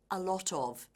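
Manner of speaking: "a lot of" linked into one chunk; words run together. Shown as a demonstration. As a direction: slide "a lot of" together like "alotof". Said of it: "She ran those words together".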